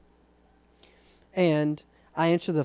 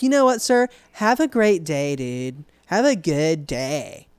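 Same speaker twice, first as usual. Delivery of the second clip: mock polite dismissal; slower than usual. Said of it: "So I was like".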